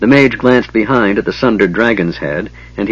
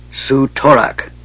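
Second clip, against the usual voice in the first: strange, higher, faraway-sounding words; odd voice; 5 semitones higher, slower than usual. Acted. Goldmoon interrupting the others in an odd voice. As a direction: speak as if not quite herself. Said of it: "interrupted Goldmoon in an odd voice".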